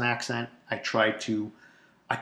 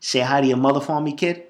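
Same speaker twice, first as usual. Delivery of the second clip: Boston tough-guy catchphrase; Boston accent; 2 semitones higher, 4 dB louder than usual. Acted. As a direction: toss it off as a Boston local. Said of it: "that is sexier than".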